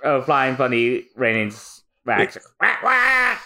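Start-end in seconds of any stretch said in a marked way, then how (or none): 2.6-3.4 mock crying wail. Crying over melting wax.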